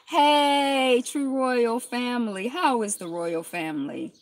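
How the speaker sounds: loud bright hey; calling out. Real, not acted. Greeting the Royal Family viewers, loud hey. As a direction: call a greeting across.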